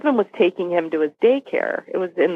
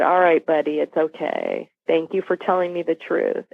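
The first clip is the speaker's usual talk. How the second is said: comforting; 2 semitones lower than usual. Retold or imitated. Mother comforting her son after his confession, gently reassuring. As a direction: soothe a child after a hard admission. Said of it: "I comforted him and I said".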